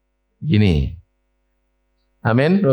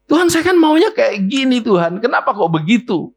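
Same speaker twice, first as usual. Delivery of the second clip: high-pitched mock whining; a believer whining that God answered wrong; whiny complaint to God; 11 semitones higher than usual. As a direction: grumble at God in a childish high voice. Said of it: "Itu lagu dunia".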